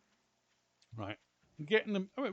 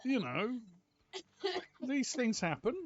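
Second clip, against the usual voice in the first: loud, high retold argument; raised indignant storytelling; animated retelling; 9 semitones higher, 6 dB louder than usual. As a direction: relive the quarrel with indignation.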